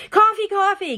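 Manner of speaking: put-on high, loud, eager child begging for coffee; eager shout. Little girl clamoring to her mother for coffee, excited shout. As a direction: bounce on it like a kid who can't wait.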